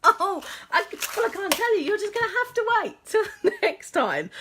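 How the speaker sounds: high, loud laughing through words. Real, not acted. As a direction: laugh off the blunder. Laughing at her mistake.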